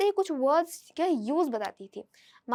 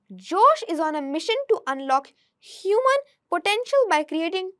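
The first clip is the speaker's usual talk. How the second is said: slow, louder, carefully articulated read-aloud; slow reading demo; 4 dB louder, much slower than usual. Shown as a demonstration. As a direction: read each word out clearly for learners to copy. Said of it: "आप सुनिए और ऐसे ही आप पढ़ने की कोशिश कीजिए".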